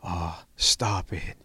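drawn-out, mildly mocking disbelief; slow, mild imitation of a friend's brush-off; mimicking his catchphrase. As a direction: stretch it out slowly in lightly imitated disbelief. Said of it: "I'd always mimic him about it".

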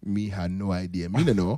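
mock Jamaican accent. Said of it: "offend a lot of Jamaicans".

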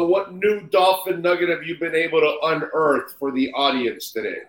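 ordinary delivery

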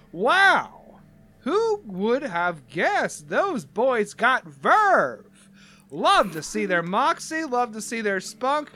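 hyped-up emcee, words drawn out and swooping high; big showy stretched-out praise for the band; Barry the Flirt. Acted. Barry hypes the band to the crowd, showy swooping emcee. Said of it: "Barry the Flirt comes out".

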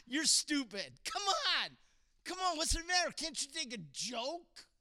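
mock a friend you just insulted; mock sarcastic jeer. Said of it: "Sarcasm was a wall".

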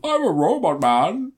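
high, slow, wavering mock villain; Orson Welles. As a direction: swoop up and down, dragging the words. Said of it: "we can watch Orson Welles go".

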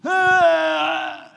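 high loud pained ah; boy cries out after the tackle; pained cry. Retold or imitated. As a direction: cry out as if winded. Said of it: "I let out one of them".

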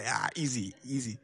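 low, soft offhand reply; casual assurance. Retold or imitated. Lifeguard reassuring his friend before the swim, casual assurance. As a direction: brush it off quietly and low.

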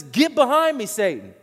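stern rebuke. Retold or imitated. Jesus rebukes Peter.

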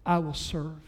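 low, hushed and solemn; quiet reverent quote. Retold or imitated. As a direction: lay the words down softly like a secret. Quoting the nurse's message.

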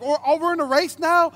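mock shock. His reaction to wife racing.

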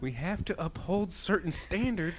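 high, loud pompous preaching voice; pompous lecturer. Retold or imitated. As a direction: lecture like a self-righteous moralist. Parodying pompous society speech.

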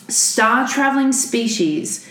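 slow, lightly voiced kindly scientist; a hint of a calm, kindly scientist. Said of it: "should I do the voice again".

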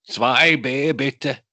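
high, loud German order; German tourist. Retold or imitated. Imitating a German pushing ahead for beer, brash German. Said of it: "går det en tysk".

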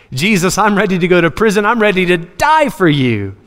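an over-keen disciple insisting on his loyalty; all excited. Acted. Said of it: "You're all excited".

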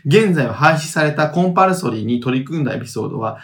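measured reading of listener mail; letter read-aloud. Acted. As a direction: read the message out evenly.

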